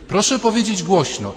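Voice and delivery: high, insistent teacher's call; teacher demanding loudness. Retold or imitated. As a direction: urge them to speak up. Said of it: "nauczycielka dykcji". (wysoko, nauczycielka domaga się głośności)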